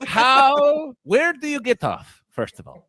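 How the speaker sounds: cat voice. Pretend. Voicing the cat Cheese.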